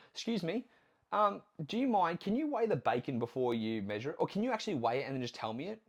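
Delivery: a touch of a prissy diner asking the waiter; mock fussy diner. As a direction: mum at a restaurant asking staff, mock prim.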